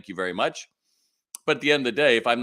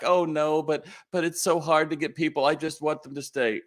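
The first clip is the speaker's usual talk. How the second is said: whiny pushback; 7 semitones higher than usual. Retold or imitated. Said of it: "someone will blow back".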